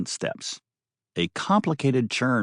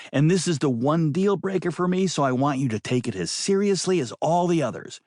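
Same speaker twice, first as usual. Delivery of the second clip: higher, indignant woman's voice; indignant ex-girlfriend; 6 semitones higher than usual. A narrator's reading. Ex-girlfriend scolding him for not calling, indignant. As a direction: huff it out like a wronged ex. Maddie lectures.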